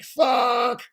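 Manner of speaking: high, drawn-out mock exclamation; imitating your own stunned reaction; retold astonishment. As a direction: blurt it as if the news just hit you. Retold reaction to Doge news.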